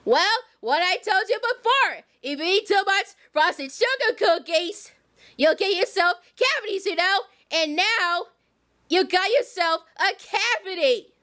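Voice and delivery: low, slow scolding grown-up voice; deep motherly warning; Harriet voice. Pretend. Harriet voice again.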